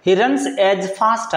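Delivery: "he runs as fast" said slowly and clearly; slow model sentence. Shown as a demonstration. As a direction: dictate "he runs as fast" to the class. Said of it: "ना कि faster".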